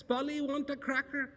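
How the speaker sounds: high squawky parrot; high parrot mimicry. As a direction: parrot it back mindlessly. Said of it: "the parrot says".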